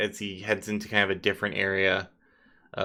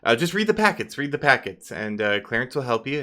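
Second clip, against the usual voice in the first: hurried excuses; 2 semitones higher, 4 dB louder, faster than usual. Acted. Flustered NPC reassuring the party while fleeing. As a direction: brush them off and hurry out. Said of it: "he's like".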